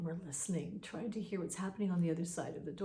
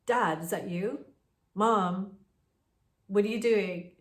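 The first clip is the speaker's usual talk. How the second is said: calling out; 6 dB louder than usual. Retold or imitated. Calling out to unseen parents.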